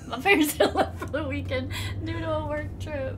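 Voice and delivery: light Southern twang, laughing through it; Southern accent. Acted. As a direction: read it in a put-on Southern accent. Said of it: "the only accent I can do".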